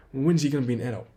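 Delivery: mock the sister's nagging complaint. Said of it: "I can hear her saying".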